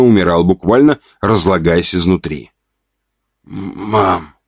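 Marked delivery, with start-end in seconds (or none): 3.4-4.3 weak hoarse croak. Acted. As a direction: croak it out weakly. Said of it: "раздался хрип".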